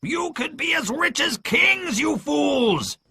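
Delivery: very high, drawn-out yell; Pew's angry shout. A narrator's reading. Blind pirate to men standing idle, furious shouting. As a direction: berate them as idiots. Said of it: "Pew shouted".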